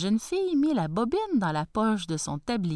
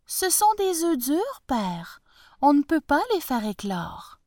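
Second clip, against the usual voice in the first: put-on young daughter; 7 semitones higher than usual. Daughter explains to father.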